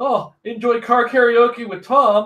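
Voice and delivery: mocking sarcasm, very high and very slow. Retelling what everybody said about the ride home: imitating a sarcastic remark. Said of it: "sarcastically turned around and said".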